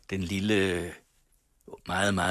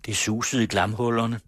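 measured, evocative reading of the landscape; story narration. A narrator's reading. Radio host reads the novel's wind scene aloud in narration.

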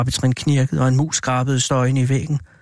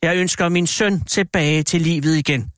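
slow, raised declaration; solemn wish; 4 semitones higher than usual. A narrator's reading. Husband wishes on the talisman for his son, solemnly. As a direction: pronounce the wish slowly and higher.

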